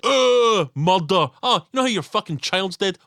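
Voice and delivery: loud, high gleeful mock villain; mock monster taunt. Monster taunting the grieving parents, loud and gleeful. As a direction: sneer it like a gloating killer. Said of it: "He's like".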